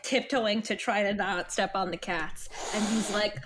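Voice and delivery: ordinary talk, nothing marked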